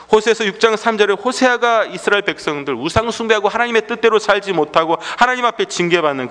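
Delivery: high, sustained sermon delivery; emphatic preaching. Real, not acted. Preaches with raised voice.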